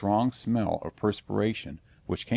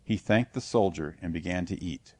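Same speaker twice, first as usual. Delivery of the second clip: ordinary delivery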